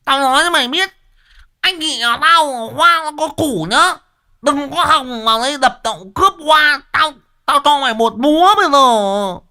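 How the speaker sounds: jealous wife screaming threats with an axe; jealous furious screaming. Acted. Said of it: "sấn sổ".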